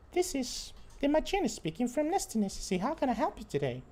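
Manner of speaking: very high squeaky phone-menu robot voice; chirpy high robotic answering machine; Mickey Mouse machine voice. Retold or imitated. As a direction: play the call-center machine as a squeaky cartoon mouse. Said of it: "It sounds like Mickey, Mickey Mouse voice".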